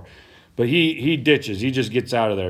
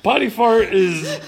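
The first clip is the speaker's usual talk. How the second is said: higher and louder, breaking up laughing; 11 semitones higher, 7 dB louder than usual. Real, not acted. Host cracking up over the botched name, laughing. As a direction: say it through helpless giggles.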